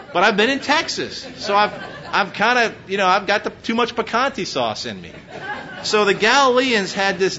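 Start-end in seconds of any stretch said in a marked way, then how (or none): 0.1-2.7 laughing. Real, not acted. Laughing admission.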